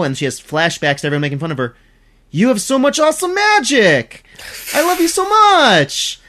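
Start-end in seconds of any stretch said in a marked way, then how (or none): 2.3-6.2 higher, eager gushing at a new friend; mock anime gush, a bit stretched out. Character gushing over the hero's magic, mildly exaggerated. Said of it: "Or, sorry".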